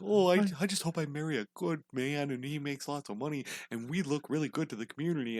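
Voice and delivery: lightly voiced old-time girl, softly wistful; mock sixteen-nineties girl. Girl of 1690 wishing for a good husband, lightly mocked. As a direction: imitate a dreamy girl of the old days. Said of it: "yeah, sixteen ninety. He's like".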